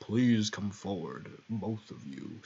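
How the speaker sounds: low, hushed, ominous foreboding voice. Recalling how he voiced Ralsei on his first playthrough, foreboding Ralsei voice. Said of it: "I gave Ralsei here like a really foreboding voice".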